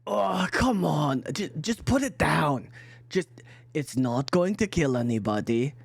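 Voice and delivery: exasperated yell, acted without much volume; mock yell. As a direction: play an irritated man yelling through a door. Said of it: "you hear him yell".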